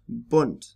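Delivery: Bund with a short oo as in hood. Shown as a demonstration. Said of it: "when it's short".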